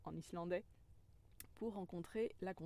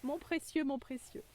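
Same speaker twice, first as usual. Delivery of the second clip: higher, louder covetous creature voice; precious, precious; 6 semitones higher, 5 dB louder than usual. Pretend. Ego coveting the stone, in a high creature croon. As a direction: croon it like a greedy little creature. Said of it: "mon ego qui fait".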